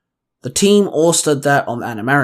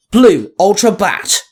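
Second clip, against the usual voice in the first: higher, louder, slow battle call; 5 semitones higher, 4 dB louder, slower than usual. A narrator's reading. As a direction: shout it out, drawn out. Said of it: "the Blue Ultra Ranger called out".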